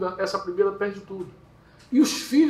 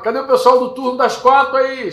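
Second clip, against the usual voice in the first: raised, higher boss's call; 6 semitones higher, 7 dB louder than usual. Acted. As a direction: call out to a crew of workers. Voicing boss calling workers.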